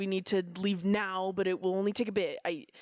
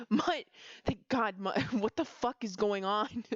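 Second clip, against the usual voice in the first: urgent call; 3 semitones higher, slower than usual. Acted. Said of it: "grabbing his sleeve urgently".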